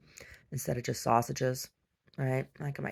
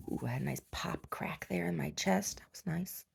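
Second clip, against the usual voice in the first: tags 1; 4 semitones higher, 7 dB quieter than usual. Real, not acted. Relieved chest crack aside.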